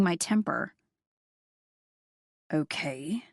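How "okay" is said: reluctant and surprised. Acted. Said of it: "the reluctance and surprise in his voice".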